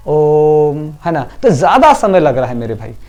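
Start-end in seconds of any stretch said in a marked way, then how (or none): 0.1-0.8 ओम stretched out and held; long Om. Shown as a demonstration. Teacher asks pupils to say ओम with him, held long. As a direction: hold ओम long for the students. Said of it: "देखो ओम बोल के देखो".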